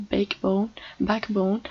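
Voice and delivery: "backbone" said as a separate model word; "backbone" carefully, set apart by pauses; English pronunciation. Shown as a demonstration. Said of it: "ça s'appelle soit".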